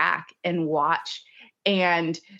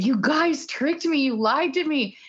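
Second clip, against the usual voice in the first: mock accusing; 8 semitones higher than usual. Retelling her playful accusation.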